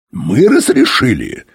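slow, indignant question; angered. A narrator's reading. Inspector throws the captain's accusation back, angered. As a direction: draw it out in offended disbelief. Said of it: "Юрковский рассердился".

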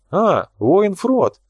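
high, drawn-out joyful exclamation; delighted greeting. A narrator's reading. Nikolai spots his friend at the exhibition, delighted. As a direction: greet him with gleeful surprise, stretching the words. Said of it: "обрадовался Николай".

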